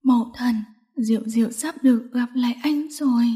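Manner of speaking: soft, resigned female voice; quiet last words before death; softly acted farewell; not loud. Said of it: "giọng Diệu Tinh không lớn".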